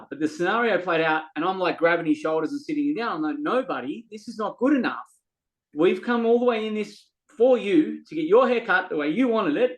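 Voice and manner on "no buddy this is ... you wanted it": raised firm voice. Retold or imitated. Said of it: "my tone is up".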